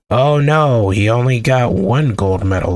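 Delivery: mildly mocking fake dismay; low, mock-concerned lament. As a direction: feign pity for someone you're about to ridicule. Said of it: "Let's laugh at him".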